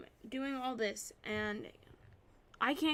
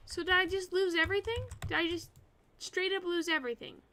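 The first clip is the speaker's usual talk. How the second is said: frustrated raging; 4 dB louder than usual. Real, not acted. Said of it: "I was raging a little bit there".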